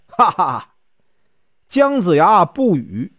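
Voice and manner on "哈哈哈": a woodcutter's short scoffing "ha ha ha"; mocking laugh. A narrator's reading. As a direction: laugh at the old man's title. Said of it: "樵夫顿时大笑不已呀". (樵夫嘲笑的哈哈笑声)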